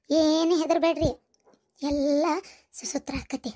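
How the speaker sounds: low, slow, soothing voice; calm them down softly; reassuring. Acted. Elder reassures the panicking family.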